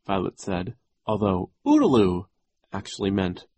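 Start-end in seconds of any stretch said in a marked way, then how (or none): 1.6-2.2 put-on baby shriek. A narrator's reading. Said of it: "Sunny shrieked".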